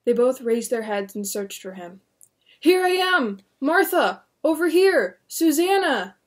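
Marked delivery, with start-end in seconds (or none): 2.6-6.2 high, loud, joyful calls; calling happily. Acted. William spotting his family in the crowd, glad loud calls. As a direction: wave them over, overjoyed. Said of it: "William called happily".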